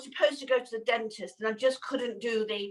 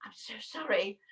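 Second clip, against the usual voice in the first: whispered, softer apology; 3 semitones lower, 7 dB quieter than usual. Retold or imitated. A fan in the queue whispering an apology. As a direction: breathe it like a shy fan. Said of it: "the lady in front of me went".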